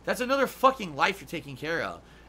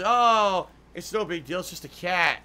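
mock dismissive; 6 dB louder than usual. Mocking careless owners.

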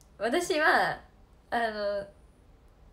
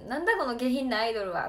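a hint of a gruff farmer snapping; mild mock scolding of the idol; grumpy old man scolding; 4 dB louder than usual. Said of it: "めっちゃ罵倒されてて". (罵倒するおじさんの軽い真似)

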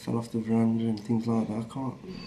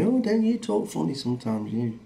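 higher-pitched imitation of a curious listener; mock questioning; 4 semitones higher than usual. People teasing him about his accent, high mock questioning. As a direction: put on a light, high voice for someone else's remark.

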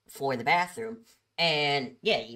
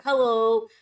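raised, louder customer greeting; calling out; 7 semitones higher, 8 dB louder than usual. Retold or imitated. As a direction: call across the store to a customer.

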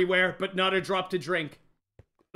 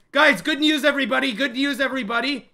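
excited announcement; 4 semitones higher, 4 dB louder than usual. Real, not acted. Announcing escape.

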